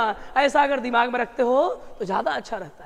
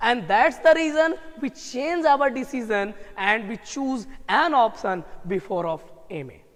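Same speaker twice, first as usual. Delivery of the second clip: very slow deliberate English, trailing off lower; slow and drawn out; 3 semitones lower, much slower than usual. Shown as a demonstration. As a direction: spell it out slowly, dropping low. Winding down a point slowly. (धीमा, खिंचा हुआ, नीचे गिरता स्वर)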